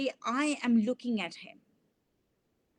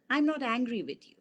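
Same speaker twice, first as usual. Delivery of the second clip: quick brush-off; faster than usual. Shown as a demonstration. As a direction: toss it off quickly, dismissively. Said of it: "I have said the same sentence in different ways".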